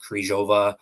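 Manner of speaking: Kryzhova without the rolled R; easier pronunciation. Shown as a demonstration. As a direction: soften Kryzhova, skip the hard R. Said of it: "instead of trying to pronounce the hard R".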